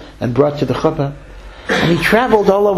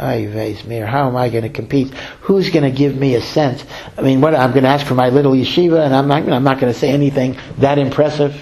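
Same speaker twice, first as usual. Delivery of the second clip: mock despair. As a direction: sigh it out like a defeated little man. Fundraiser despairs on seeing rival.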